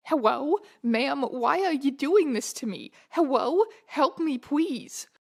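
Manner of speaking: cutesy uwu voice turning l into w, hewwo; uwuified pleading. Acted. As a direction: plead in a cutesy baby-talk lisp. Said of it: "uwuified words".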